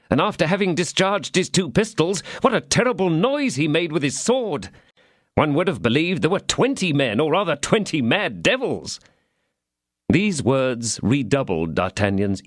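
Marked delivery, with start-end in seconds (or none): 0.1-9.0 lightly voiced servant Planchet, raised a little; a hint of an excited young servant; eager servant. A narrator's reading. Servant eagerly reminding his master, lightly voiced.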